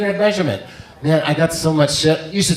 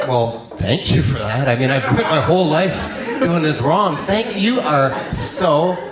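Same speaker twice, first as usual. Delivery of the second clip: sarcastic thanks. Retold or imitated. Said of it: "I'm like".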